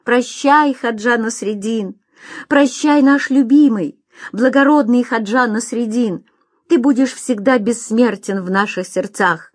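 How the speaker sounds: calling after him. Acted. The crowd bidding farewell to Nasreddin, calling out. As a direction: call out a loving farewell. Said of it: "кричали ему вслед".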